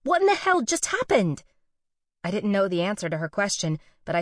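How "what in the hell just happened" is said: pacing and demanding answers; agitated outburst. A narrator's reading. Allie upset after the kiss.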